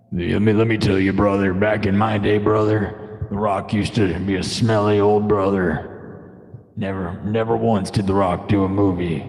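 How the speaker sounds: low, gravelly wrestler croon, brother; hammy wrestling promo sung as a song; Hulk Hogan style rock song. Pretend. Streamer jokes a wrestler-style song, lightly growled low. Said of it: "This is a song".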